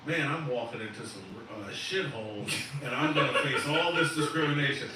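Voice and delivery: laughing through an imitated thought; mock inner voice with laughter. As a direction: scoff at the idea while chuckling. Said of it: "if you think".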